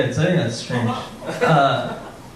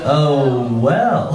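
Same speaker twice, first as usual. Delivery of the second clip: almost Owen Wilson. Acted. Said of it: "this is almost Owen Wilson".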